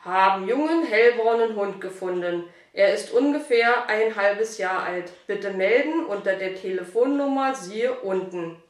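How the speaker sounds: reading aloud. Acted. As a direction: read the found-dog note out loud. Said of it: "Er las laut vor".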